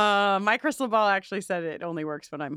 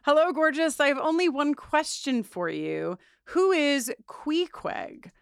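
flirty letter read; 4 semitones higher than usual. Acted. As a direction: read it like a sultry love note. Reading listener letter to the ball.

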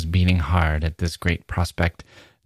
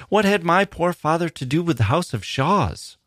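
sharply higher, bewildered question; astonished cry; 9 semitones higher than usual. A narrator's reading. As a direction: let the shock lift the whole line. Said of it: "I cried".

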